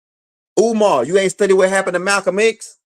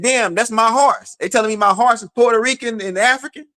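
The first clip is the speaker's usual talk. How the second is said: incredulous guy; 4 semitones higher than usual. Retold or imitated. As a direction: play the guy who can't believe his horse's results. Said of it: "And he said".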